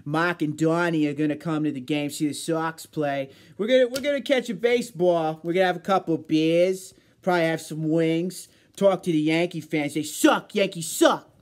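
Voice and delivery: loud put-on Boston sports fan; hammed-up Boston ballgame talk; Boston accent. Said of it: "Little Boston talk time".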